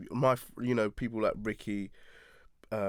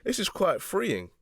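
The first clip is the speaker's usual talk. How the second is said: slow, higher words into a laugh; 12 semitones higher, 4 dB louder, slower than usual. Real, not acted. Joking that the podcast is therapy.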